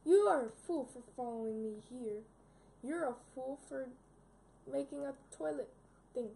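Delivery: loud gloating villain. Acted. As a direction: sneer down at the intruder. Villain confronts the pig.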